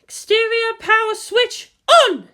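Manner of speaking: high, loud, slow command shout; shouted order. A narrator's reading. Misato commanding the launch, shouting. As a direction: bark the order across the room. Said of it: "shouted Masato".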